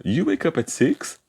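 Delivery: slow, high-pitched question with a big lift on "wake"; question intonation. Shown as a demonstration. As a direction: make "You wake up at six?" a question by melody alone, slowly. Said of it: "fazer essa entonação de pergunta". (entonação de pergunta, lenta e aguda em "wake")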